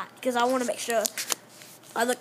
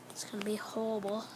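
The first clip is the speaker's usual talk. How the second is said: breathy whisper to viewers; 3 semitones lower, 11 dB quieter, faster than usual. Real, not acted. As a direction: whisper it, dreading it. Whispered aside before eating.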